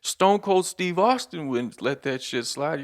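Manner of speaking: slow, pumped-up wrestling hype; slow hyped instigator; wrestling-fan friend. Retold or imitated. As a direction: insist like a fired-up fan. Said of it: "he's like".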